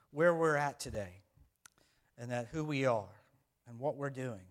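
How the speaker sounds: measured church prayer; pastoral prayer. Acted. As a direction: pray over the congregation, unhurried. Pastor leads opening prayer.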